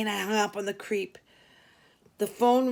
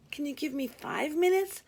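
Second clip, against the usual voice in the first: sweet; 6 semitones higher than usual. Acted. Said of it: "I asked in a sweet voice".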